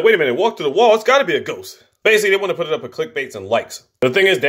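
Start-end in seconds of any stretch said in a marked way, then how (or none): 0.0-1.8 higher-pitched imitation of someone convinced; lightly acted, emphatic disbelief; mock excited insistence. Acting out insistence it is real.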